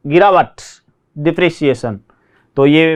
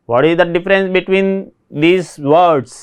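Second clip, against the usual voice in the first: slow reading; much slower than usual. Shown as a demonstration. Teacher reads English prompt.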